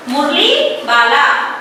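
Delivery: मुरली वाला said slowly, मुरली rising at its end; slow pronunciation model. Shown as a demonstration. Teacher modelling a hard word for pupils, मुरली वाला said slowly. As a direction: draw out मुरली and वाला as two separate words. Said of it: "सही से इसका उच्चारण".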